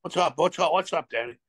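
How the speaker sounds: lightly imitated French accent; a hint of a French-Canadian accent; teammate's French accent, only lightly put on. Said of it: "him in his eloquent French accent".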